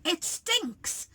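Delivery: gag at the stink, hammed-up; disgusted cry. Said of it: "and Len said".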